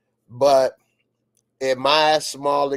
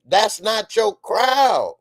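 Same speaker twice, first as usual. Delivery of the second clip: emphatic repeat; 7 semitones higher, 4 dB louder, slower than usual. Acted. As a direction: hammer it home, slow and loud. Repeated scolding.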